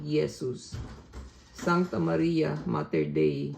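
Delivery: steady, earnest recitation of Latin prayer with a Filipino accent; rosary prayed in Latin with a Filipino accent. Real, not acted. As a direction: pray it from the heart, in measured phrases. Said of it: "with my Filipino accent".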